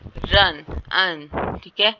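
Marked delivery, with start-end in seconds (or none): 0.1-0.8 रन said loud with a clear rolled R; रन said louder, R clearly heard; pronouncing run. Shown as a demonstration. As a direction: sound out रन, R fully voiced. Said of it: "जैसे".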